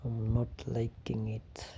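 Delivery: soft unvoiced whisper. Real, not acted. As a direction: whisper it under your breath. Repeats complaint in a whisper.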